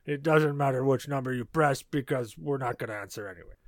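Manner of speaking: lightly voiced cartoon villain hotline recording; hint of cartoon villain as automated menu; Strong Bad. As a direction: read phone menu options in a character voice. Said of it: "in the strong, bad voice".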